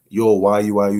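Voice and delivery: lightly voiced, no real heat; casual mild question. Shown as a demonstration. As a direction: ask it offhand, barely bothered. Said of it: "He's not just".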